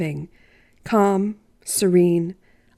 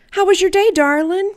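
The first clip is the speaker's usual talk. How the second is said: lightly voiced kindly grandpa, pitched higher; grandfather voice; 10 semitones higher, 4 dB louder than usual. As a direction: ask it sweetly like a doting old granddad. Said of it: "and he said".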